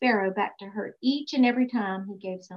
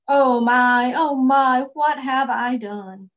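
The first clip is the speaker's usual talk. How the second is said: louder moaning lament, slowing at the end; 2 semitones higher, 6 dB louder, slower than usual. Acted. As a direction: moan it out like a sleepless king. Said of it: "he moaned".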